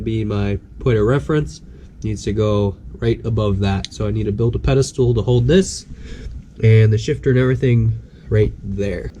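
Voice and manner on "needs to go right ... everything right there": stuffy, nasal sick voice. Real, not acted. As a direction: talk through a blocked nose. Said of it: "Really sorry about my nasally voice".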